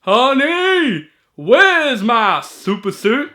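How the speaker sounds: loud, high, drawn-out movie holler; calling out to spouse. Acted. Quoting Incredibles, husband calls to wife, urgent holler. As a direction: yell for someone in another room.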